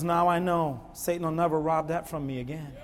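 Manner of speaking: hushed, low retelling of a moved man; soft and subdued, dry-eyed; retold tearful testimony. Preacher retells a man moved by the message, hushed. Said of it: "he cried".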